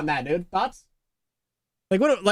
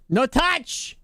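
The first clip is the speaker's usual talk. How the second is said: put-on Irish accent, a bit higher; mock Irish; 3 semitones higher than usual. Streamer echoing a viewer's "I touch", mock Irish. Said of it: "Why are you Irish?".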